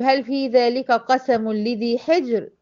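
slow recitation, pausing on حجر; Quranic recitation. Shown as a demonstration. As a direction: recite the verse and stop on حجر. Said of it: "أدي الريه هنا سكنت نتيجة الوقف".

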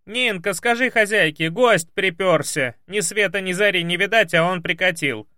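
high, loud grumbling yell; shouting maid. Acted. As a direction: bawl it across the house, annoyed. Maid shouts to other servant.

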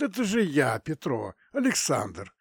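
high, loud strained rasp; hoarse voice. Acted. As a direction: talk through a wrecked throat. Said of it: "Охрип, понимаешь".

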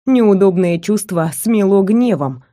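usual speaking voice

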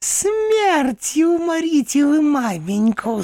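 very high, slow cry. A narrator's reading. Companion crying out at the uncle, high and slow. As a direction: yell it in tearful rage. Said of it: "скричала она дяде".

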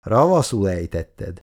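mild, grudging grumble; cross grumble. Acted. Halász losing a point to Icu, crossly grumbling. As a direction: grumble with a touch of annoyance. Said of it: "Halász mérgesen dörmögött".

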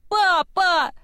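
very high, loud desperate call; screaming. Acted. Girl screaming after her father being dragged off, high desperate call. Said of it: "снова закричала Кива".

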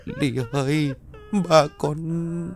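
high, broken crying voice; despairing sobbing. A narrator's reading. A touch of a mother crying to her daughter over the dead father. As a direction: sob it out in despair. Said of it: "bật khóc lên trong tiếng khóc tuyệt vọng".

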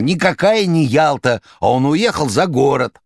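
very high, loud excited cry; excited shout. A narrator's reading. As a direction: burst out triumphantly. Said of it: "возбуждённо кричал".

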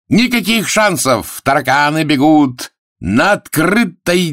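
high, ringing public address; showman's announcement. Acted. Arthur reassures the gamblers before the start, high announcing. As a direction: proclaim it high to the crowd.

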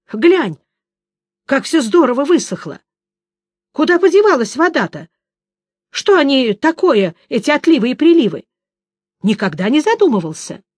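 a touch of eager amazement; lightly voiced excited Dandelion; excited bard. A narrator's reading.

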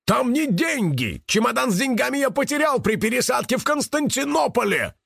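high-pitched agitated outburst; horrified cry. A narrator's reading. Karych realising the money is lost, crying out. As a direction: blurt it out high, in dismay. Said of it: "закричал он".

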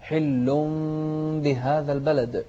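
تلاوة هادئة مرتلة; رتل الآيات بتأن; تلاوة مجودة. Acted. Teacher recites surah. (تلاوة قرآنية مرتلة)

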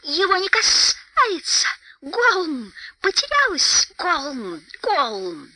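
high distressed creature voice; high wailing hiss, falling into gulps; squealing Gollum. A narrator's reading. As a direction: squeal it, then sink into throat gulps. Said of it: "взвизнул Голлум".

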